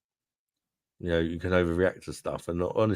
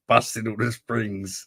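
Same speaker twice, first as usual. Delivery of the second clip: laughing; 4 semitones higher, slower than usual. Real, not acted. Joking about mattress springs.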